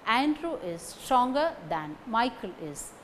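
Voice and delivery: "Andrew", "stronger" and "Michael" stressed. Shown as a demonstration. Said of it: "These three words carry stress".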